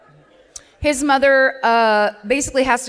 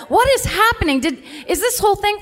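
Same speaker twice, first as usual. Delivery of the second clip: pitched way up, baffled and incredulous; mock disbelief; 9 semitones higher than usual. Watching the documentary, the host voices her own baffled disbelief. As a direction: act out total bewilderment while watching. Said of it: "And then you're like".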